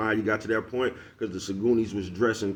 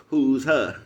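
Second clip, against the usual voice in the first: higher, louder, laughing; laughing mock question; 5 semitones higher, 7 dB louder than usual. Mocking the cop again, laughing and louder. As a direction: ask it through a laugh.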